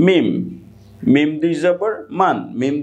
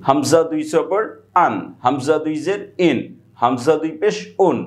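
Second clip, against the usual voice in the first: measured spelling drill. Shown as a demonstration. Teacher spelling hamza for students, measured drill delivery. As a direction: spell out "হামজা দুই জবর আন" unhurriedly, phrase by phrase. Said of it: "আপনি এভাবে পড়তে পারেন".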